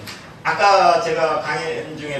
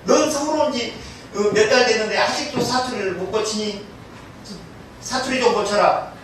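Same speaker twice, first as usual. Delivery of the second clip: coworker's scolding; 5 semitones higher than usual. Acted. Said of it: "동료가 그랬답니다".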